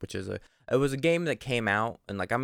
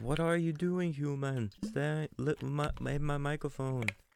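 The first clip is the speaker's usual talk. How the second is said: put-on talking cat voice with a Jamaican accent; 6 semitones higher, 3 dB quieter than usual. Speaker voices their staring cat talking to a person, cat voice in Jamaican accent. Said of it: "I don't know what accent that I've Jamaican?".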